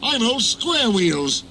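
fuming Henry. A narrator's reading. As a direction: grind out each word in a huff. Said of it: "fumed Henry".

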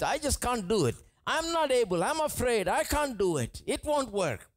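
a stammering man begging to be let off; fearful Moses. Acted. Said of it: "Moses goes before God and says".

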